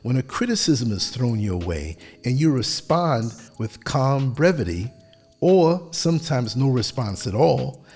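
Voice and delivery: measured, even narration; steady, composed voiceover delivery; polished voiceover read. Acted. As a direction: read it like a calm documentary voiceover.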